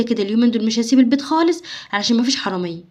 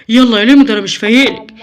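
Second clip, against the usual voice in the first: irritated snap; 7 dB louder than usual. Acted. Father snaps at kids.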